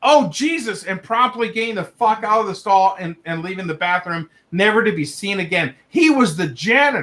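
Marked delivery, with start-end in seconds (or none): 0.0-0.8 mock sudden shouted cry, high-pitched. Retelling what the janitor said in the stall, imitating someone yelling.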